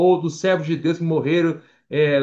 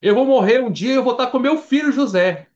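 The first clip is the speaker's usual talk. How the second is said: a lightly voiced mourning father, higher and a touch louder; voicing grieving Jacob; 7 semitones higher, 4 dB louder than usual. Preacher voices Jacob vowing to join his dead son, mildly mournful. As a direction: speak as old Jacob resigned to follow his son. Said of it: "Jacó falou assim".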